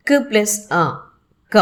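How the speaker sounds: క్ as a bare consonant, then అ, then the joined క; syllable split apart. Shown as a demonstration. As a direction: sound out క్ and అ apart, then blend into క. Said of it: "వీటిని విడగొట్టగలుగుతాము". (క్, అ విడదీసి పలికి క గా కలపడం)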